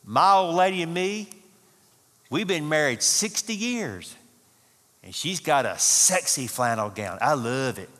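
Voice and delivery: put-on a touch of the proud old husband; old codger. Old man bragging about his wife's gown, lightly voiced codger. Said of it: "and this is how he said".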